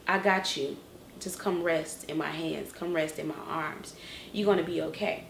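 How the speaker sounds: soft, soothing comfort; quietly comforting, as a loving protector; gentle reassurance. Retold or imitated. Voices God's comforting reply.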